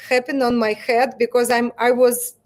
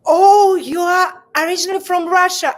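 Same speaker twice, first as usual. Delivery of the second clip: higher and louder, mock surprised; imitating the stylist; 6 semitones higher, 5 dB louder than usual. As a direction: play the stylist reacting to hearing Russia. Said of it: "certain stylists said that".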